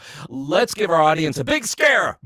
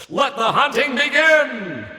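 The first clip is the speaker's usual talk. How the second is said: slow, higher, eerie host call; spooky announcer; 9 semitones higher than usual. Acted. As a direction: announce the hunt like a horror host. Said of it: "what I say now is".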